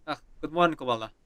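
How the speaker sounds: put-on character voice in a Russian accent. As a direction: greet him in a Russian accent. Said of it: "I was in voice acting mode".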